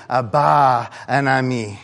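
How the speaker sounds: slow, tender calling of Abba and Ami; baby's cry for parents. Retold or imitated. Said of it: "you would cry out as a baby".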